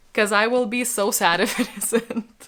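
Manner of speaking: joking threat of sadness breaking into laughter; playful, laughing lament; half-joking. Real, not acted. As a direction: say it lightly, laugh slipping in. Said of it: "seriously though".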